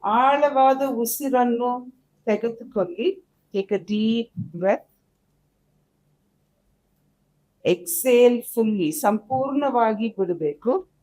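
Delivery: measured body-scan guide, long pauses; guided meditation. Acted. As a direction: lead them calmly from breath to body.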